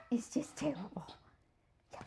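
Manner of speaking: soft whispered comfort to the pup. Real, not acted. Owner whispering sympathy to her nervous dog, soft whisper. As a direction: hush it gently, sympathizing. Soothing the dog after drying.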